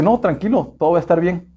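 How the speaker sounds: calm him like a loving father; mild soothing divine voice; voice of God. Retold or imitated. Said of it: "O la voz de Dios que dice".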